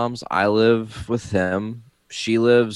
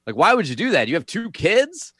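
put-on upset kid; 8 semitones higher than usual.

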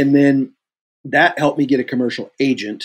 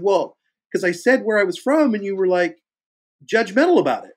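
retold accusation; 8 semitones higher than usual. Retold argument, actor answers back.

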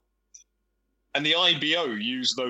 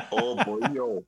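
put-on light Welsh accent starting with a laugh; a quick, lightly done Welsh accent; brief playful Welsh accent on request; 3 semitones lower than usual. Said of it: "do that Welsh accent again".

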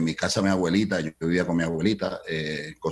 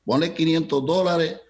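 Cuban boss voice; 7 semitones higher than usual. Retold or imitated. Cuban manager agrees to five hundred dollars, high and impatient.

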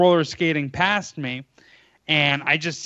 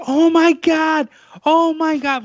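high, drawn-out retold scream; imitated screaming; 12 semitones higher, 5 dB louder, slower than usual. Storyteller mimicking the hurt skater, screaming. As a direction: wail it, mimicking her panic. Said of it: "like, screaming".

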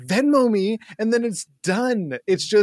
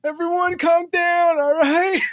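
slow commanding robber; 6 semitones higher, 3 dB louder, slower than usual. Acted. Robber calms hostages.

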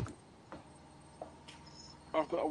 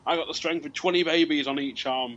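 wrestler boast; 3 semitones higher, 9 dB louder than usual. Retold or imitated.

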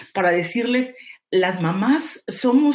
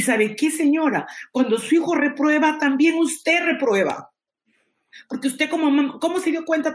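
higher and emphatic, slowing on the last words; forceful warning; 6 semitones higher than usual. Real, not acted. Teacher confronts a mother about her child failing, forcefully. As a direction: drive the point home to the mother.

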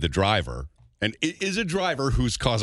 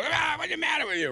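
put-on high yelling at a teen driver; angry driver yell. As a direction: shout it out the car window. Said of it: "honking and yelling at her".

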